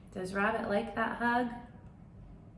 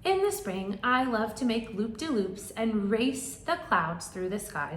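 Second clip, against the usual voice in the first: bird voice; 2 semitones higher, 5 dB louder than usual. Acted.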